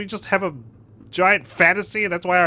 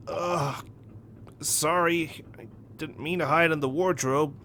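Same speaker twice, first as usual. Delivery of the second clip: softer, sheepish mumble; meek apology; 7 dB quieter, slower than usual. Acted. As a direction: apologize weakly to a captor. Hero apologizes to his captor.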